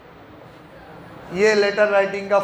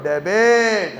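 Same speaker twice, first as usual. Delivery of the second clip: a strong "डेबिट", said louder with a falling end; a louder, confident "डेबिट"; loud and firm; 3 dB louder, much slower than usual. Shown as a demonstration. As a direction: bark out "डेबिट" with force. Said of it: "ऐसे जोर से".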